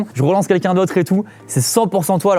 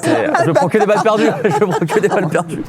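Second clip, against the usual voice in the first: laughing. Real, not acted. Complains about being accused, laughing.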